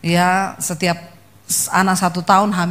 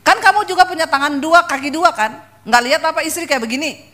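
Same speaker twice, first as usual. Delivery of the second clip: higher, heated scolding of husband; raised, indignant rebuke, quickening at the end; retold yelling back; 5 semitones higher than usual. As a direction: scold him like you've had enough. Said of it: "saya juga teriak sama dia".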